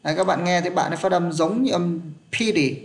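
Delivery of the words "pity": "pity" with the t softened to a d; American flapped t. Shown as a demonstration. Teacher echoing a student's American sound, flapped t in "pity". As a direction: say "pity" roughly as "pi-dee". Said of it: "tức là giống như âm đờ".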